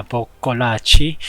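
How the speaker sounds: Boccolacci said the Italian way, pokolatchi, slow; Italian accent on a name. Shown as a demonstration. Streamer reading race results, name in Italian accent. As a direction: roll out Boccolacci with a put-on Italian flair. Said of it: "I give that weird accent when I say his name".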